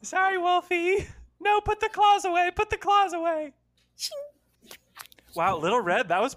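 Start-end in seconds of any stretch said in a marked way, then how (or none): 0.0-3.5 frantic shouting. Pretend. Little Red yanking wolf.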